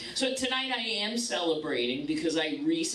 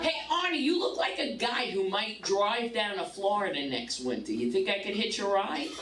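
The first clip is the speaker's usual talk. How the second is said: flirty come-on; 3 semitones higher than usual. Acted. Flirting with a guy at airport.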